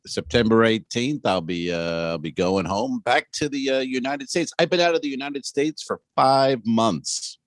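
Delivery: retake. Shown as a demonstration. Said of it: "Do it again from the top".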